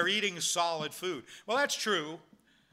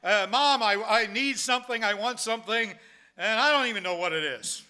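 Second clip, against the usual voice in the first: mock fussing, raised and loud; crying baby; 4 semitones higher, 6 dB louder than usual. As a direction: act out a baby pleading to Mom, lightly hammed-up. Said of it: "they don't know why they're crying".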